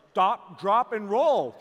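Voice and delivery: guy panicking at a crying girl, hammed-up alarm; panicked guy. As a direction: blurt it like a clueless guy in a panic. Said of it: "guys are like".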